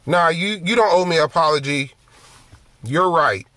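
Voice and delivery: quick, mocking brush-off; sarcastic. Wife to husband after a fight, sarcastic quick brush-off. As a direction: toss it off like you don't mean it. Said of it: "in a sarcastic way".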